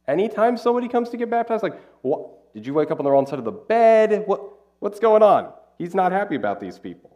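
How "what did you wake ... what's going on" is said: high, louder mock disbelief; mock baffled. Pastor mocking a baffled onlooker, high and loud. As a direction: act out confused bystander asking John. Mock surprised reaction to John.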